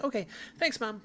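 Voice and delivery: high little thanks, pleased; happy daughter. Acted. Daughter thanking her mother, happy and high-pitched. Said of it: "she's happy and she says".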